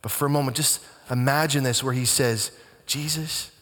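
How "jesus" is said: softer, pleading "Jesus"; soft, understated appeal; tender plea. Acted. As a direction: say "Jesus" gently like a dying man's plea. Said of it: "you can sense the tone, the inflection in the actor's voice".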